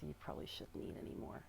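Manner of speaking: muttered under the breath, voiceless; imitated murmur. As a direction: mutter it half to yourself like he did. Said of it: "he was, like, murmuring it".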